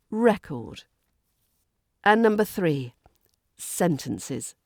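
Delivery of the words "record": "record" as REC-ord, falling; weight on the first syllable of "record"; noun stress. Shown as a demonstration. Teacher repeats the noun for learners, "record" stressed on REC. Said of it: "if you put the stress".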